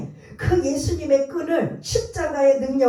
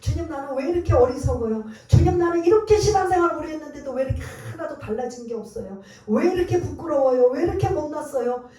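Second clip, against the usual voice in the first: lamenting prayer; 4 semitones higher, faster than usual. Retold or imitated. Pastor voicing a believer's wailing prayer, building plea. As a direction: pour out the shame, rising with each 왜 이렇게.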